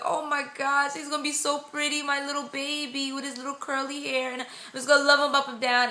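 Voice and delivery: high-pitched doting gush; so excited. Retold or imitated. Mother-to-be imagining her pretty baby, excited and doting. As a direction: coo it, retelling a giddy moment. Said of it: "I just got so excited".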